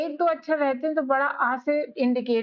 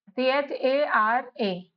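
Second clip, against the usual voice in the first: slow spelling; much slower than usual. Shown as a demonstration. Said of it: "हरा".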